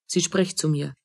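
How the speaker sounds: a quiet stunned aside; low and hushed realization; soft, dropped murmur. Acted. Realizes she is spoken to.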